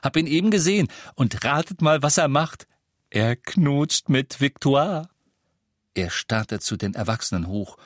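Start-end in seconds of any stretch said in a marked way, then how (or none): 0.0-5.1 put-on high, loud, eager boy with big news; excited gossip. A narrator's reading. Boy reveals gossip to his parents, excited. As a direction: draw out the reveal with relish.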